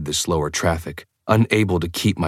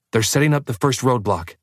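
noting; 6 semitones higher than usual. A narrator's reading. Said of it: "Alice noted".

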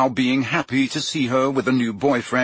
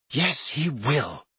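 relieved; 3 semitones higher, 4 dB quieter, much slower than usual. Acted. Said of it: "looking relieved".

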